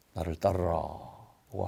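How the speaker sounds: low, soft, slow summons; Jesus. Retold or imitated. Jesus calling Matthew after seeing his longing, soft solemn summons. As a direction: quote it slowly, hushed and low, as a calling.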